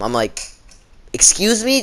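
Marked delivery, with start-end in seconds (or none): 1.1-1.8 high, loud offended rise; indignant excuse me. Retold or imitated. Reacting to the teacher calling him dumb, indignant high. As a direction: snap back, offended and surprised. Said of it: "Just thinking that in my head".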